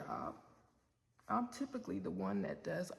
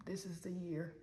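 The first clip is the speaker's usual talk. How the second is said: whisper. Retold or imitated. Gently raising a painful anniversary.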